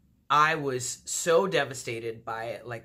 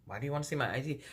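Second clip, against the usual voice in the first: retold casual, softer question rising at the end; playing it off; 5 dB quieter, much faster than usual. Playing it off to a suspicious date, mock-casual. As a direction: ask it offhandedly, as if unbothered. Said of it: "I'm trying to play it off".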